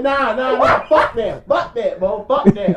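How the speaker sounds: insistent alarmed refusal; emphatic refusal. Retold or imitated. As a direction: shut it down loudly, word after word. Retold panicked refusal.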